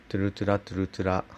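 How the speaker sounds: トゥルトゥラトゥルトゥラ said fast with a trilled r; quick tongue-roll drill on トゥルトゥラトゥルトゥラ. Shown as a demonstration. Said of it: "やり方としては".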